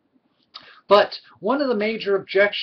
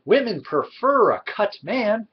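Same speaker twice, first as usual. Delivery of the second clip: mocking approver; 2 semitones higher than usual. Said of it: "so many will be so quick to say".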